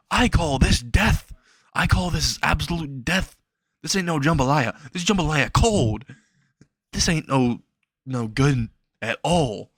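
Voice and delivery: lightly acted outrage at a bad meal; mock indignant rant. Acted rant about bad jambalaya.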